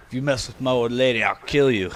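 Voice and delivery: lightly voiced tough guy; threatening husband. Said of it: "he says".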